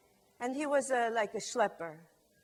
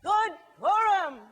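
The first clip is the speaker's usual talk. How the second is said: higher, louder, slow festive shout; slow ringing holiday shout; loud joyful greeting; 6 semitones higher, 5 dB louder, slower than usual. Shown as a demonstration. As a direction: boom it out like a holiday cheer. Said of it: "Let's try it together".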